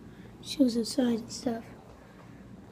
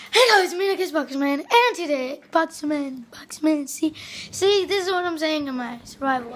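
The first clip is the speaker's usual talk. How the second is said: loud, fast, excited youtuber intro; Minecraft intro voice; 2 semitones higher, 6 dB louder than usual. Retold or imitated. Imitating his own gaming video intro, loud and fast. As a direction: hype up the channel opener. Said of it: "And then I go like".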